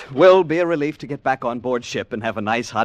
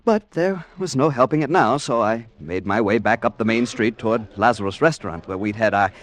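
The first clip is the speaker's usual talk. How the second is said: calm retelling in the first person; story narration; 3 semitones lower than usual. A narrator's reading. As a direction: tell it like a radio story, steadily.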